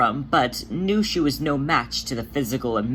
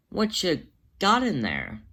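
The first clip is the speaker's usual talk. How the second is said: slow curious whisper; 5 semitones higher than usual. A narrator's reading. Jelly peering at the pot, whispering slowly. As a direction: ask it slowly under your breath.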